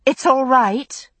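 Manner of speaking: slow, shaken reassurance from a stunned woman; steady them though you are reeling; slow, husky words, still in shock. A narrator's reading. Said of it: "voice husky with shock".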